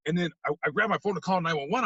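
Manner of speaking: ordinary talk, nothing marked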